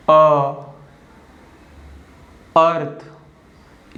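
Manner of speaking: अर्थ said very slowly; drawn-out vowel. Shown as a demonstration. Teacher sounds out a word for pupils. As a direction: draw out अर्थ, lingering on the vowel. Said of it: "दोनों मिलकर अ sound को बना रहे हैं".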